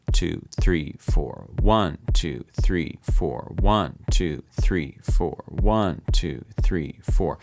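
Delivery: "One" strongest, "four" dropped low; counting in four. Shown as a demonstration. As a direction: push "One", let "four" sink. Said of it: "very strong, weak, strong, weak".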